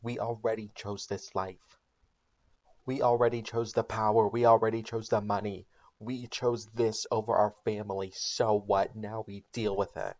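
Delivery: hammy angry Walter, pushing it; retold scream. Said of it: "of course, screams at her".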